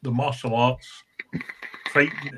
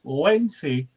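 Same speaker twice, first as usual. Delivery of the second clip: relishing each word and laughing by the end; savoured repeat; 3 semitones higher than usual. Shown as a demonstration. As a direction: roll the words out with a chuckle. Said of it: "just tell me that again".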